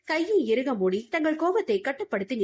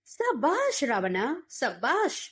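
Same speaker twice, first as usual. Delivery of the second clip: mocking praise; 3 semitones higher, much slower than usual. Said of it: "பலமாக கைத்தட்டியபடி".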